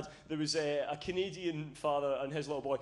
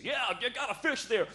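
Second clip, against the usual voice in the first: higher-pitched encouraging dad, falling at the end; imitated proud father's reply; Canadian father; 5 semitones higher than usual. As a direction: answer like a Canadian dad indulging his boy. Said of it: "And he's like".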